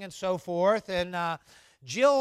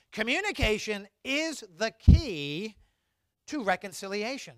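slow key phrase; 3 semitones higher, 4 dB louder than usual. Shown as a demonstration. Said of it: "Let's say that together".

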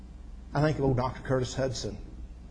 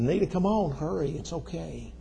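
daddy calling, urging; 6 semitones higher than usual. Retold or imitated. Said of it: "I heard Daddy calling".

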